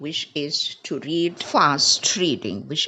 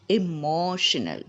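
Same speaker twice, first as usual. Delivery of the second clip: "Emotional" as e-MO-sh-nal; stress on MO. Shown as a demonstration. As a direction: model "Emotional" clearly with weight on MO. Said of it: "stress is on mo".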